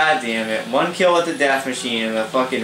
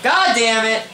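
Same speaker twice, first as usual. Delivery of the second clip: frustrated outburst; 9 semitones higher, slower than usual. Real, not acted. Gamer killed again by a shotgun, frustrated curse. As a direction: spit it out in frustration.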